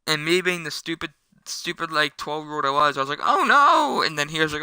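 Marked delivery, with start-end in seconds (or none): 3.2-4.0 high, louder cry of alarm; panicked kid's yelp, acted out; mock panic. Storyteller as his twelve-year-old self after hitting a car, mock panic.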